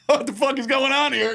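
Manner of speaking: high-pitched imitation of bewilderment; puzzled reaction. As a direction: act out someone looking round, baffled. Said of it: "he's looking around like".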